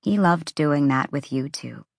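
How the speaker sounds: softened. Acted. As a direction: say it gently, fondly. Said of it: "Ember's voice softened".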